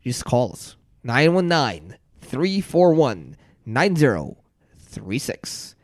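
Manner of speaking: smooth pitchman read of the phone number; infomercial voice. Acted. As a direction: sell it like a late-night ad. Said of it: "what an infomercial voice that is".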